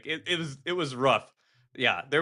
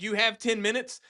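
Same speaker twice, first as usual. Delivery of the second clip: casual recruiter; 7 semitones higher than usual. Retold or imitated.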